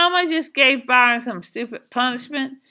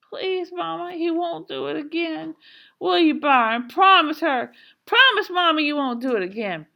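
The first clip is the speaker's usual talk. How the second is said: put-on pleading child; 7 semitones higher than usual. A narrator's reading. Joetta begging mama to spare Byron, desperate plea. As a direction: beg desperately, growing more urgent. Crying sister begs for her brother.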